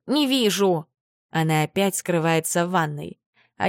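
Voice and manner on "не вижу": не stressed, falling, exasperated; frustrated. Acted. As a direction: insist не вижу, fed up. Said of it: "тяжело вздыхает".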